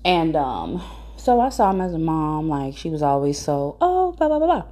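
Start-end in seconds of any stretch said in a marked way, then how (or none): 3.8-4.6 high, sing-song mock sweetness; friend's nice mom. Child imitating friend's always-nice mom, high mock-sweet babble. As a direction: imitate a sugary mom, pitched way up. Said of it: "she's always a nice person".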